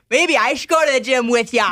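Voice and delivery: lightly voiced boss with a laugh; mild impression of boss Jeff. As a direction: imitate the boss casually. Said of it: "I could do my boss, Jeff".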